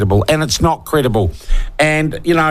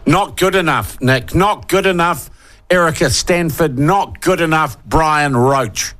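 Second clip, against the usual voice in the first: higher, indignant roll call of names; worked up; 3 semitones higher than usual. Real, not acted. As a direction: call each name out in disgust. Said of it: "God, I'm getting worked up".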